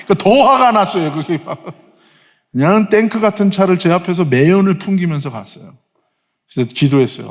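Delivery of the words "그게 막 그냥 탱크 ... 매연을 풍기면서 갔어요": ordinary delivery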